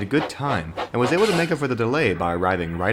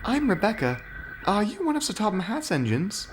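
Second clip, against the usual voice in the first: higher and softer, a hopeful lady engine; high gentle engine voice; 12 semitones higher, 4 dB quieter than usual. Acted. Rebecca answers Oliver in a higher, softer voice. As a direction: ask shyly.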